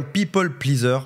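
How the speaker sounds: people pleaser said with a mock English accent; a hint of an English accent, half-joking. Shown as a demonstration. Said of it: "Admirez mon accent anglais".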